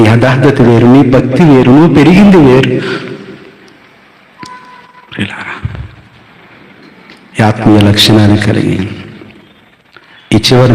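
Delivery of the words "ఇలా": a breathy hush, no voice; whisper. Real, not acted. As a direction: drop to a bare whisper. Hushed word before prayer. (గుసగుసగా)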